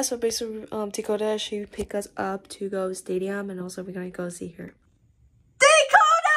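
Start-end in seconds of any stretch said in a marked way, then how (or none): 5.6-6.4 loud high call across the room. Real, not acted. Greeting her friend Dakota as she arrives, loud high call. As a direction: shout her name to get her attention.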